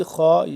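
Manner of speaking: thick scraped خ in خا; heavy kha. Shown as a demonstration. Teacher shows the thick letter, heavy kha. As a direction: say خا full and heavy from the throat. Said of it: "خا موٹا پڑا جائے گا".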